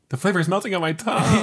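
laughing. Real, not acted. Laughing while quoting.

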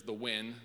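inflection put on "when"; single out "when" with emphasis; stress on "when". Shown as a demonstration. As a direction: lean lightly on "when" to point it out. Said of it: "put an inflection on that one".

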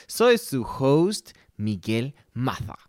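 host introduces himself in a put-on Spain accent, Maza with a lisp; slow, grand "Maza" said "Matha"; mock Spanish accent. Shown as a demonstration. Host poses as a Spaniard, mock Castilian accent. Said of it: "Vamos a pronunciarlo como lo decimos en Venezuela".

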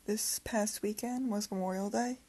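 talking with retainers in; slight lisp, retainers in. Real, not acted. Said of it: "sorry about my lisp".

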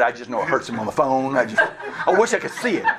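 mock gleeful, laughing; laughing gloat. Real, not acted. Gloats about hurting his dad.

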